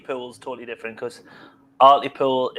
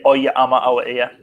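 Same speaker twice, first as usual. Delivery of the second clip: put-on Sunderland townie accent; 3 dB louder than usual. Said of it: "They would say".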